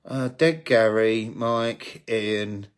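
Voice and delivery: trailing off, blanking on names; losing the thread, voice fading; brain freeze. Real, not acted. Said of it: "I've got brain freeze".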